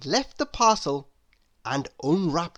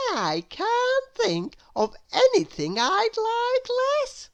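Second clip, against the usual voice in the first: Little Miss Contrary. A narrator's reading. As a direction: gush over the room as if thrilled. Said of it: "said little Miss Contrary".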